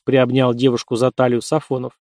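ordinary delivery

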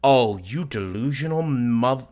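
slow disgusted spit of words; contemptuous. Real, not acted. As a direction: drag it out with disgust. Contemptuous outburst.

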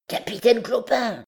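high-pitched call to a leader; lightly voiced high underling; calling the chief. A narrator's reading. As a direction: hail your captain in a high voice. Underling calls out to his chief.

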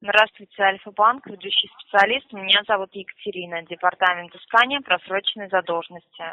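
formal scripted phone greeting; customer service voice. Acted. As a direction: rattle off the company intro. Scripted collector introduction again.

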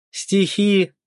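high, disbelieving "poems?"; can't believe what he heard; incredulous. A narrator's reading.

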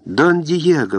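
name cried out high in delight; joyful exclamation. A narrator's reading. Young woman rises to meet returning Don Diego, joyful cry. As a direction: greet him like a prayer answered. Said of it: "воскликнула молодая женщина".

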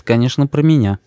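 ordinary delivery

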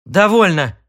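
loud sharp bark. Acted. Sid silences his wife with a loud bark. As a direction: cut her off hard. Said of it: "рявкнул Сид".

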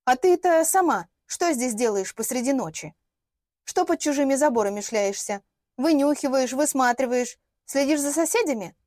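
cheeky accusing outburst; blurted counterattack. Acted. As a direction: turn defence into attack, brash. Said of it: "и выпалила".

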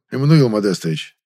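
"Эммануил Модестович" said soft and coaxing; soft, enveloping. Acted. Director coaxing the young man by name, soft and enveloping. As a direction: coax him gently by name. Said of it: "обволакивающим мягким голосом".

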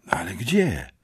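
bezdźwięczne, ciche pytanie; szept. Acted. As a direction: szepnij w napięciu.

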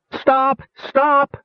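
high, desperate cry of stop; tearful pleading. A narrator's reading. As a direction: beg them to stop, near tears. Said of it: "Rainspot pleaded tearfully".

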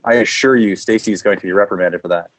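low, soothing manager voice; apologetic manager. Acted. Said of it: "call back as your manager and apologize".

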